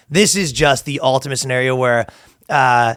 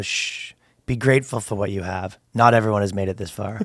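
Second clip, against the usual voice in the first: soft, low, hushed mock wisdom; hushing softly; 5 semitones lower, 5 dB quieter than usual. Man soothing disappointed girlfriend in a soft hushed voice. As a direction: shush her and speak gently. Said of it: "You go".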